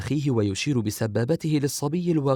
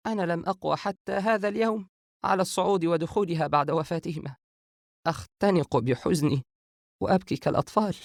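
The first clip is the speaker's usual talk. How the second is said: high-pitched, grieving woman's voice; sorrowful; 7 semitones higher than usual. A narrator's reading. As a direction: voice her grief in a raised, plaintive tone. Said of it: "عائشة بحزن".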